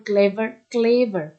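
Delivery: ক্লেভার with a loud "CLE", falling "ver"; ক্লেভার, pressure on the opening syllable; stress on first syllable. Shown as a demonstration. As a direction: punch CLE in ক্লেভার each time. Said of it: "সিএলই এর উপর pressure".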